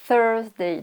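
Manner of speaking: Thursday with tongue between teeth on TH; airy TH in Thursday. Shown as a demonstration. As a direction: let air out on the TH of Thursday. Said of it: "vous mettez la langue entre les dents". (Thursday avec un TH soufflé)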